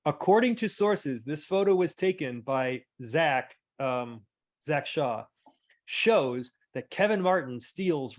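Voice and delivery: measured caption reading; caption read-aloud. Pretend. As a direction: read it out deliberately, like a report. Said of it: "I'm going to read the caption".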